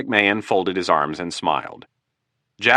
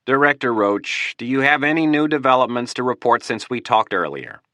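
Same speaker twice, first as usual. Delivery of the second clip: tired voice; 5 semitones higher than usual. Acted. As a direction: ask it like you're exhausted. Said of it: "in a tired voice".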